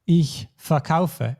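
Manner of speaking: ich verkaufe slowly, ver light, KAU stressed; stress on second syllable. Shown as a demonstration. Teacher giving an example of an inseparable verb, slow verkaufe stressed on KAU. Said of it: "the stress is not on the syllable, but on the kaufe".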